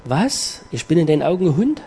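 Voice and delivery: mildly offended, quick retort; offended woman. Pretend. Imagined mother reacting to Jesus, mildly indignant. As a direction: act out a hurt, indignant comeback. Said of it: "Jetzt hätte die Frau reagieren können".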